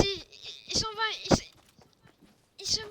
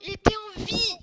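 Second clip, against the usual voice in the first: louder, play-acted indignation; mock accusation; 2 semitones higher, 5 dB louder than usual. Player confronts Clément over his lie, acted indignation. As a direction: accuse him hotly, in pretend outrage.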